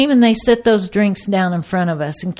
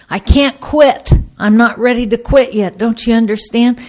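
acted desperate insistence; 3 semitones higher, 4 dB louder than usual. Wife still raging after her husband walks away, insistent protest. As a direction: act out someone who cannot stop fighting. Voicing her rage during fights.

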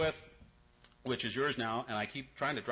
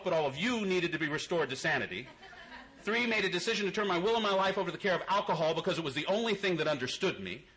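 mock twelve steps; 5 semitones higher than usual. Parody twelve steps recited mockingly.

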